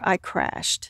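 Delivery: barely voiced, dropped to a near whisper; a breathy hush on the crash. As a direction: let the words fall away almost soundless. Recalling her collapse, voice drops.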